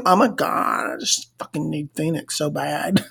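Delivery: very soft, hammed-up longing; mock pining woman. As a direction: let it sink to a tiny feigned plea. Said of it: "She says".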